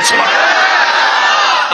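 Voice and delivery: very high, slow, drawn-out cry; ecstatic cry. Real, not acted. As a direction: lift the crowd with a soaring call. Preacher calls for response.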